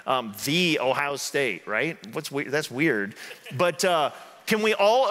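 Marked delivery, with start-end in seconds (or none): 0.4-1.7 slow, self-important THEE for "the" in Ohio State; mock emphatic article. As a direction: lean on "the" as a long THEE. Repeats the mocking emphatic "The.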